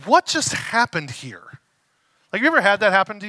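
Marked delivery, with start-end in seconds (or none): 0.0-1.6 bewildered, drawn out slowly; stunned and dragging the words; slow stunned disbelief. Retold or imitated. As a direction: let it sink in, confused. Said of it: "he's like".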